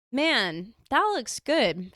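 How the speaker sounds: Southern drawl, high and drawn out; slow, high Southern lilt; very Southern accent. Retold or imitated. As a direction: put on a thick Southern accent. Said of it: "this is in a very Southern accent".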